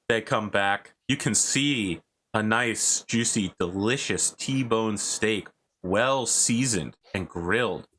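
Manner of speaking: slow, measured scene description; unhurried storyteller laying out the scene; game master scene-setting. Acted. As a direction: linger over each item, drawn out.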